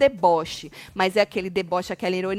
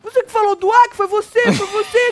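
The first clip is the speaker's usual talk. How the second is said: high, agitated accusing rant; mock angry; 10 semitones higher, 4 dB louder than usual. Retelling Tonzão rising from the table, mock-angry accusing. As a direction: fire off accusations and denials, pitched way up. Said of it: "ficou puto".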